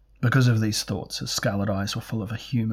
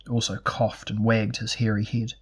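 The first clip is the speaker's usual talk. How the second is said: ordinary delivery, nothing marked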